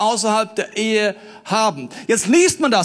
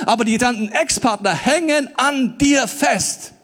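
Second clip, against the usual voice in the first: usual speaking voice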